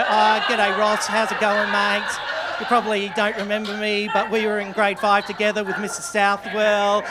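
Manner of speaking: lightly voiced, overly friendly hello; a hint of an awkward reunion call; mock cheery apology. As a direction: play it chummy and eager. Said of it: "I wanted to find him and go".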